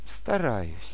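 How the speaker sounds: wavering, hesitant, unsure and noncommittal delivery. Acting out a person asked about their goal, imitating a hesitant answer. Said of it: "Вот такой интонация".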